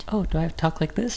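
put-on very high-pitched girly voice. Asked to talk in a higher pitch, the speaker tries it out: higher-pitched voice. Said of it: "Talk in a higher pitched".

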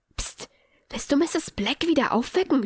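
scolding tone with a psst. The speaker hushes a companion who just slammed the door; quiet scolding. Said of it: "schimpfte Hermine leise".

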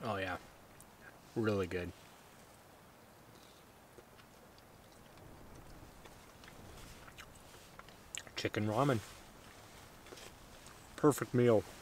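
soft, breathy, half-whispered talk while chewing. Eating chicken ramen with a beer: talking with mouth full. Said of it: "talking with my mouth full".

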